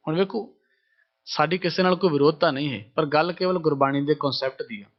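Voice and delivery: ordinary delivery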